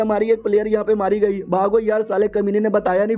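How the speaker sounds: high, mildly panicked cry; retold panic. Gang panics as beast kills member.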